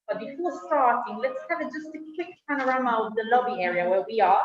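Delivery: muffled through a face mask. Real, not acted. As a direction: speak from behind a mask, slightly muffled. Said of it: "Can you hear me well with the mask".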